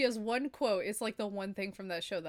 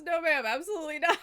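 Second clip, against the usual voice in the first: higher, louder mock refusal; pitched-up bellhop reply; imitated bellhop; 7 semitones higher, 6 dB louder, faster than usual. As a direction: refuse emphatically as a flustered bellhop. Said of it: "The guy goes".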